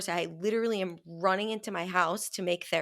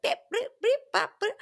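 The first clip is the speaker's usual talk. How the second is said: high, loud, silly robot noises; robot beeps; 4 dB louder, faster than usual. Retold or imitated. Showing a friend her scatterbrained state, high silly beeps. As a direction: beep like a scattered little robot. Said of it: "felt like I had A D H D".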